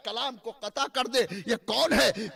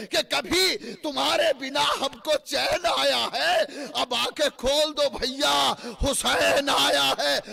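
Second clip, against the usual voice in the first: loud wailing cry over brother's body; grieving cry; 4 dB louder than usual. Acted. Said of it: "یہ کہہ کے لاش برادر سے شاہدی لپٹے". (بھائی کی لاش سے لپٹ کر بلند فریاد)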